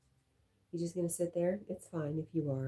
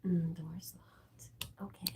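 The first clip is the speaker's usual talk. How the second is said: slow hushed whisper; whispered aside, slow and secretive; much slower than usual. Real, not acted. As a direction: breathe it out slowly. Trying the door quietly.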